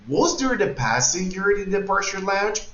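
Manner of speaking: high start on "Was there", "lounge" left up without falling; question intonation. Shown as a demonstration. Teacher models a question for English learners, question intonation. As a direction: ask it as a question, "lounge" held up at the end. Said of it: "give intonation to the question".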